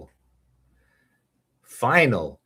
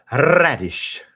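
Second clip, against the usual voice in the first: funny way; 5 semitones higher, 6 dB louder than usual. Shown as a demonstration. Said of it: "say it in the funny way".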